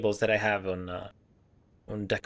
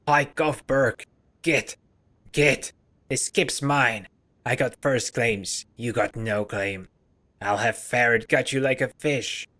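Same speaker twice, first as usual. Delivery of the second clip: loud, furious scavenger shouting his claim; lightly voiced grimy scavenger, yelling in rage; Quint's angry outburst; 4 dB louder than usual. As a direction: bark him off the spot, louder. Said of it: "His face turns bright red".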